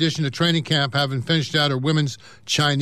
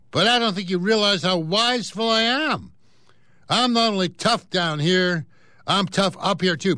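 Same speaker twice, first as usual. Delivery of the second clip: boastful cat; 3 semitones higher than usual. Acted. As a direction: brag to the dog, pitched up. Bucky Cat lectures sleepy dog.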